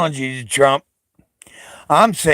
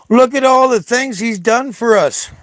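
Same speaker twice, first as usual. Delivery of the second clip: sarcastic stage whisper, higher; mock whisper; 8 semitones higher than usual. Mocking Trump supporters in a sarcastic whisper. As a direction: breathe it like a secret, mocking.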